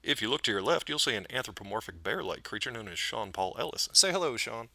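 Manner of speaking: lightly voiced airline pilot; a hint of a pilot on the intercom. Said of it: "an intro to be pilot voice".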